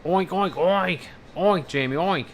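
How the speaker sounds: high squealy piglet oinks. Pretend. Teasing chatter Jamie on stream, high squealing pig oinks.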